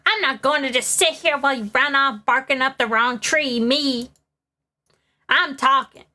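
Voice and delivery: lightly voiced indignant old lady; a hint of a huffy gossip; cranky old witness. Witness butts in on the court, lightly indignant.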